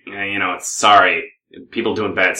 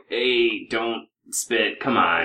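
mild protest; 6 dB quieter, much slower than usual. Acted. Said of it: "And I'm just like".

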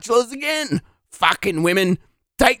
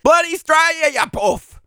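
higher, punched insult; angry exasperation; 5 semitones higher than usual. Acted. Rough applicant insulting baffled interviewer, angry and exasperated. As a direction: lose patience and spit it out.

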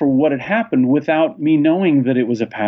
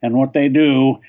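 put-on old man voice. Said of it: "I'm gonna put on old man, old man voice".

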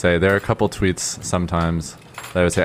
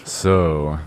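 deep radio voice; slower than usual. Shown as a demonstration. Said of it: "my deep radio voice".

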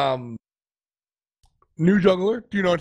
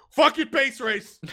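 laughing shout; 10 semitones higher, slower than usual. Retold or imitated. Voicing team's reckless call.

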